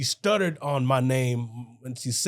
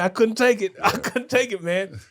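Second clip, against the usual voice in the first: high, laughing quote; joking I couldn't take it; laughing mock complaint; 7 semitones higher, 3 dB louder than usual. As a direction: squeal it out through laughter. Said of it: "I was like".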